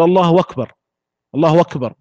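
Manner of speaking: both times أكبر begins with w, as wakbar; hamza turned waw. Shown as a demonstration. Teacher imitating imams' takbir, hamza as waw. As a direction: swap the glottal stop of أكبر for a w glide. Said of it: "يكبر بهذه الطريقة".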